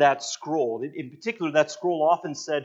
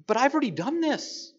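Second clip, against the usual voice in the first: rising to a higher, quicker divine voice; a touch of a triumphant God; voicing God; 7 semitones higher than usual. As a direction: speak as God brushing off the rebels. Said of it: "as if God is saying".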